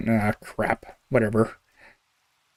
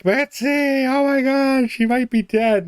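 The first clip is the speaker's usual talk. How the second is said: much higher, frantic imitation of dad; panicked dad; 13 semitones higher than usual. Dad freaking out to Betsy, high and panicked. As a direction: mimic a dad freaking out as the old dog falls downstairs. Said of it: "He's just like".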